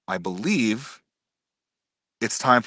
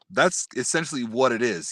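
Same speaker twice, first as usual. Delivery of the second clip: ordinary delivery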